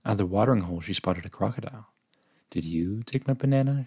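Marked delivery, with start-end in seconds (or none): 2.5-3.8 higher, mildly timid question; rather timid. Acted. Orangutan questions a crocodile she dares not anger, rather timid. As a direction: ask carefully, a touch nervous. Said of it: "she asked rather timidly".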